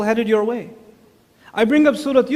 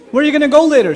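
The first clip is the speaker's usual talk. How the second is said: loud pushy dad; 7 semitones higher, 9 dB louder, much faster than usual. Retold or imitated. Dad pressing a silent teen.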